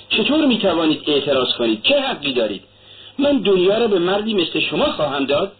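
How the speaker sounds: a mother sharply rebuking a suitor; sharp reproach. Acted. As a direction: put him in his place, hotly. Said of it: "به تندی گفت".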